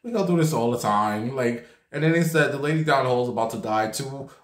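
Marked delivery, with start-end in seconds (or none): 0.0-1.3 casual. Retold or imitated. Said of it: "these nurses just, like, casually". 2.5-4.3 offhand. Retold or imitated.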